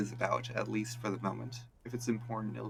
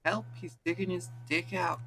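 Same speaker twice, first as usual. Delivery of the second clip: yelling for help; 9 semitones higher than usual. Acted. Kids screaming false accusations.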